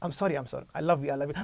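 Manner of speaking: soft pleading apology. Pretend. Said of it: "I can demonstrate you".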